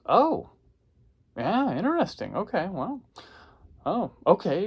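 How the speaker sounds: high, hesitant puzzled woman's voice. Retold or imitated. Quoting the puzzled woman who asked him, high and hesitant. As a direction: sound politely thrown by an odd answer.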